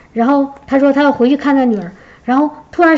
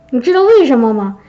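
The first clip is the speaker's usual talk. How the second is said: ordinary talk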